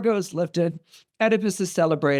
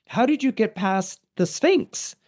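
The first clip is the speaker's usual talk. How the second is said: slow, higher-pitched astonishment; amazed question; 5 semitones higher than usual. Retold or imitated. Thebans questioning a stranger who passed the Sphinx, amazed. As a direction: ask it slowly, rising in disbelief.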